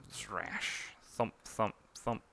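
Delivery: soft slash and falling thumps; hushed slash, then dull thumps; comic sound effects. Acted. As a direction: voice the impact noises softly.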